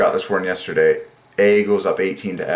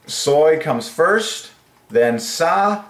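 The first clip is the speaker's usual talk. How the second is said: excited; 7 semitones higher, much slower than usual. Real, not acted. Excited at perfect match.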